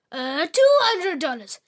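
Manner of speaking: put-on high, loud whiny child; whiny girl. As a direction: whine it like a spoiled girl. Girl pleads, louder.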